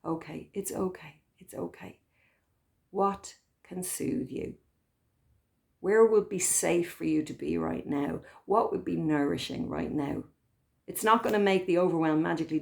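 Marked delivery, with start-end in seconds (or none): 0.0-2.0 softer whispered reassurance; soothing whisper. Shown as a demonstration. Inner carer hushing the overwhelmed self, whispered. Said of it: "soothing whisper". 2.9-10.2 kind soothing voice. Retold or imitated. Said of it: "then you can say".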